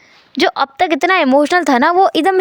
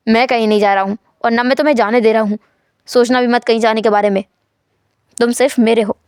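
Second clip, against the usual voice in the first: possessive; 4 semitones lower than usual. Acted. Wang possessive, low voice.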